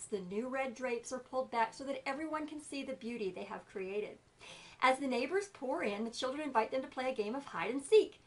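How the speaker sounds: lively storybook reading; story narration. Acted. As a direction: tell it like a children's story. Reads the story aloud.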